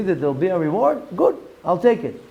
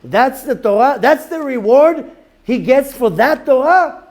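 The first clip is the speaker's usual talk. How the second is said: higher, louder, slow anguished cry; anguished students; 7 semitones higher, 5 dB louder, slower than usual. Retold or imitated. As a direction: cry out at the injustice. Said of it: "his students saw it... saying".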